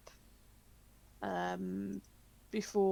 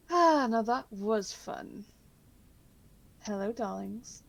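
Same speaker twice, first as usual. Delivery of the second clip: breathy vintage purr; 2 semitones higher, 6 dB louder than usual. Acted. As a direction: purr it like a vintage film siren. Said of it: "a familiar voice".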